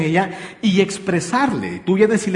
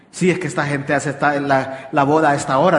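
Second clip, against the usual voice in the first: oblivious husband; 3 semitones lower than usual. Retold or imitated. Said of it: "dice el marido".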